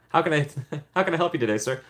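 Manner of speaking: lightly acted fast-food cashier; drive-thru worker. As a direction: play a chirpy order-taker through a laugh. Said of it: "Pull up to McDonald's".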